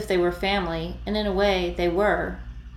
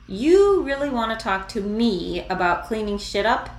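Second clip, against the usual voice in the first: sharp, louder angry challenge; tense anger; 4 semitones higher, 5 dB louder than usual. Acted. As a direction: bite back, stung and tense. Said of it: "his voice tense".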